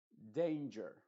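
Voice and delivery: "Danger" said slowly with the "ei" sound; English A as "ei". Shown as a demonstration. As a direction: stretch the "ei" in "Danger". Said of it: "la A lo pronuncies como A".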